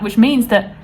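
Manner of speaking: ordinary delivery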